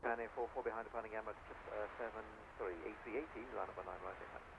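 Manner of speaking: crackly radio transmission; clipped readbacks over the tower frequency; air traffic control radio. Real, not acted. Live tower frequency audio.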